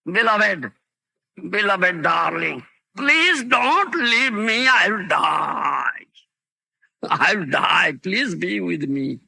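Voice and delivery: acted plea of an abandoned lover, slow on please don't leave me; pleading lover. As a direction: beg her not to leave, half-acted in the preacher's voice. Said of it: "naked and crying and running behind".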